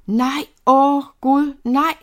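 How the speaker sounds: slow, loud, drawn-out cry of no; terrified scream. A narrator's reading. Girl thrown onto a soldier's saddle, terrified scream. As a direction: scream in panic as she is seized. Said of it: "skreg hun".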